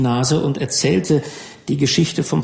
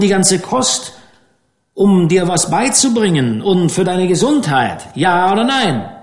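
put-on raised, firm skipper lecturing a boy; lightly voiced stern fishing captain; gruff skipper Troop; 5 semitones higher than usual. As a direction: lay down the law to the rich kid.

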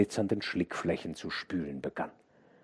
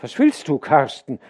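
louder, higher call down the dike; 6 semitones higher, 10 dB louder than usual. A narrator's reading. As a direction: hail the boy coming near. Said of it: "rief ihm der Knecht entgegen".

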